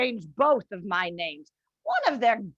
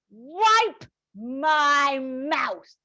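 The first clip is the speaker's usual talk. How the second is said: slow, savoured contempt; much slower than usual. Acted. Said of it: "Mildred tirade".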